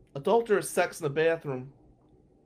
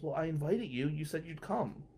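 hushed reply; 6 dB quieter than usual. Retold or imitated. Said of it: "he goes".

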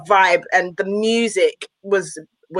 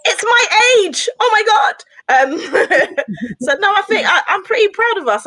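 much higher, laughing through the words; 12 semitones higher than usual. Real, not acted. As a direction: giggle it out, half overcome. Laughing at her own age.

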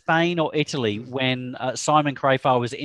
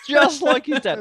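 higher and louder, stressing the words; louder emphatic repeat; 11 semitones higher, 5 dB louder than usual. Shown as a demonstration. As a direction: belt it out the second time.

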